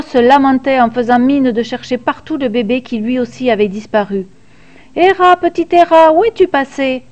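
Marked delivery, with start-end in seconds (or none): 5.0-7.0 mock lament. A narrator's reading. Father pretends to search for baby, hammed-up cry. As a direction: fake a worried call. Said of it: "cria-t-il partout".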